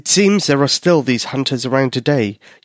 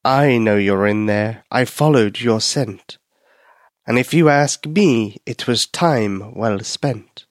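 strange cat voice; slower than usual. Acted. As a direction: purr the threat through the door slowly. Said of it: "a strange voice spoke".

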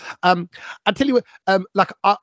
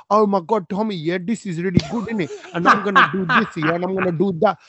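mock London Asian twang. Host mocking the co-host he doesn't want, light Brit-Asian twang. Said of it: "someone who's got that twang in it".

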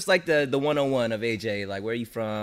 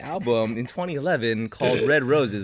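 announcer voice; slower than usual. Pretend. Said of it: "This is my announcer voice right now".

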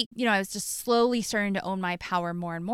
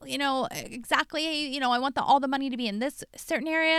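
mocking husband; 5 semitones higher than usual. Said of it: "he was diminishing it".

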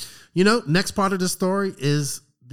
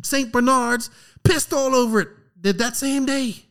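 imitating a pissed-off friend, pitched way up; high-pitched mock rant, spaced out in indignant bursts; retold outrage; 11 semitones higher than usual. Friend complaining about sleeping on garden furniture, retold outrage. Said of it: "he was so pissed off".

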